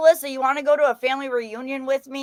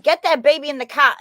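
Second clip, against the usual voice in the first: louder, imitated Boston accent; R-less Boston retelling; 3 semitones higher, 5 dB louder than usual. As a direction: mimic a brusque Boston mother-in-law, R dropped. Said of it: "the way she said it".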